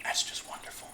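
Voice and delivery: breathy whisper after a sip; whispered delight. Real, not acted. Streamer whispering over her summer drink, hushed. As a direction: savor it under your breath. Sipping tea, savoring it.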